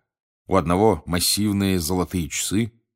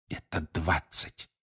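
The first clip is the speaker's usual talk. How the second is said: slow, hushed correction; lowered voice; 7 dB quieter, slower than usual. A narrator's reading. Harry corrects Mr Weasley about the money, lowered voice. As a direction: correct discreetly, much softer. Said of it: "понизив голос, поправил его Гарри".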